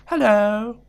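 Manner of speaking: high, silly fake English accent; teacher's fake English accent. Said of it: "English accent. It is, it sounds so stupid".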